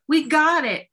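high, loud excited shout; excited news. Retold or imitated. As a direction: blurt the big news. Imitating friend's excited news.

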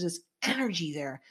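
hushed, spooky whisper; creepy whisper. Real, not acted. Telling the co-host about the creepy place, whispered. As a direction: whisper it like a ghost story.

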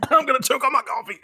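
high, quick words through laughter; real laughter. Real, not acted. Host laughing at co-host's joke about the chapter ending, helpless laughter. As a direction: talk while cracking up.

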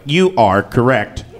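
slow, even computer voice; robot voice. Retold or imitated. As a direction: speak like an eighties talking toy. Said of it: "a crazy robot voice would be like".

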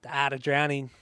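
"Art" as "at", r dropped, Boston-Australian; Boston-turned-Australian accent. Shown as a demonstration. Repeating album title for cohost, muddled Boston-Australian accent. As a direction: attempt Boston and drift toward Australian. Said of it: "That sounded more Australian".

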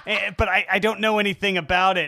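mocking parody. S2 parodies S1's stock talk.

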